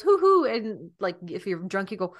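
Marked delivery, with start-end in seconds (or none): 0.0-0.4 owl hoot. Retold or imitated. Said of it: "an owl goes".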